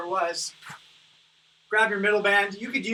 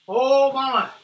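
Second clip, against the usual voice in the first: strained exclamation; 4 semitones higher, 6 dB louder, slower than usual. Real, not acted. Gasps after finishing the reps.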